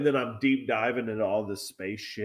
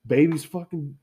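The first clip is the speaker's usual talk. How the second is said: higher, mock-tearful protest; imitated crying; 5 semitones higher than usual. Retelling her crying after being yelled at, mock sobbing. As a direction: whimper it as someone else's tearful excuse. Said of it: "she starts fucking crying".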